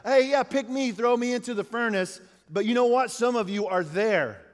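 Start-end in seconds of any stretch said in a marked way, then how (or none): 0.0-2.2 mock eager volunteer. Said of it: "nobody's like".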